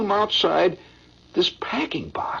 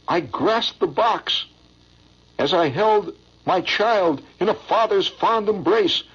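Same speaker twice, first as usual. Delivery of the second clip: poem recitation. Acted. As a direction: recite it like a heart-tugging stage ballad.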